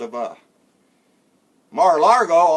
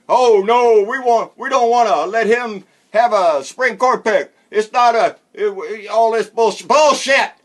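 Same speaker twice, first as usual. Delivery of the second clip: whiny mockery; 3 semitones higher, 4 dB louder than usual. Mocking Republicans blocking a Supreme Court pick, hammed-up whine. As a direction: whine like a spoiled kid denied a toy. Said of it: "you little whiny Republicans".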